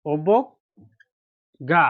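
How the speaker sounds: অবজ্ঞা drawn out very slowly; 1 slow model word. Shown as a demonstration. Teacher shows pupils the word অবজ্ঞা, very slowly. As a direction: stretch অবজ্ঞা syllable by syllable. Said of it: "teacher models the word slowly".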